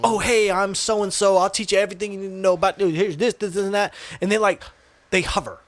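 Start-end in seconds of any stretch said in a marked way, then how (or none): 0.0-3.9 imitating an over-eager salesman's patter; pushy salesman rattling through his pitch; rushing salesman. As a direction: reel off a mock sales greeting, picking up speed. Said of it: "they rush you".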